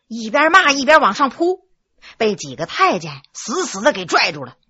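plain reading voice

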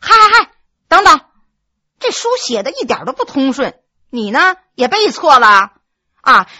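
wife scolding husband's misreading; correcting him. Acted. Wife interrupts recitation correcting.

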